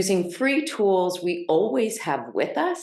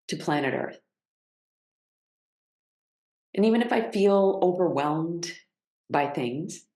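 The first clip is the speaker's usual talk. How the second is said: unhurried guiding voice with long pauses; measured meditation cues, settling on each phrase; guided grounding practice. Real, not acted.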